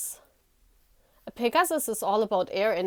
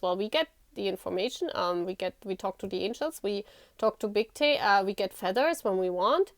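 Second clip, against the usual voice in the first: put-on inner child voice; 4 semitones lower, 4 dB quieter than usual. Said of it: "And then my inner child goes".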